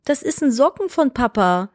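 lightly voiced reassuring parent; gently explaining parent. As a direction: explain it to a small child. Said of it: "nicht so".

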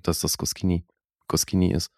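"Goscinny" said koss-KEE-nee with a hard sk; "Goscinny" with a hard k after the s, unsure; other pronunciation. Shown as a demonstration. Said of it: "ich glaub, dass der eben". ("Goscinny" mit hartem k, zögernd)

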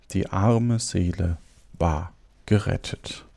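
storyteller giving each phrase its weight; fairy-tale narration. Acted. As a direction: read it aloud with lively emphasis and clear diction. Reads a fairy tale aloud. (Märchen lebendig vorlesen)

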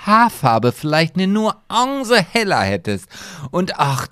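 lightly mock the people swooning over him; mocking admirer voice. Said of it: "die sagen auch immer".

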